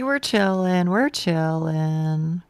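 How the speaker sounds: slow, drawn-out mock calm; faked despair. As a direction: drag it out like hollow despair passing as calm. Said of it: "does that count as faking despair".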